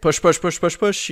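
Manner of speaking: loud, rising push push cheer; midwife coaching. Shown as a demonstration. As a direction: coach them hard like a midwife. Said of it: "You give him your best midwife impression".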